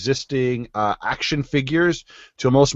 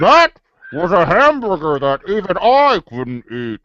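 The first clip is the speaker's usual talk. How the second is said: action figure voice; 7 semitones higher, 5 dB louder than usual. Pretend. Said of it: "muffled action figure speaker voice".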